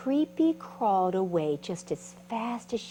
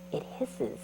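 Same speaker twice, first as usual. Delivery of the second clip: hissed; 5 semitones higher, 6 dB quieter than usual. Shown as a demonstration. Mimics a hissing snake.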